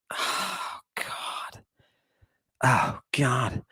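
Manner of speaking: breathy whispered "Oh, God"; whispered aside. Real, not acted. Lecturer marveling to himself, whispered under breath. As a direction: drop to a whisper to yourself.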